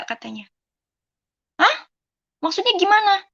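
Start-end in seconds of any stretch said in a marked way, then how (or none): 1.6-3.3 stunned, higher-pitched disbelieving question; retold shock. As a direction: relive hearing bad news, voice lifting. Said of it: "kan kaget ya".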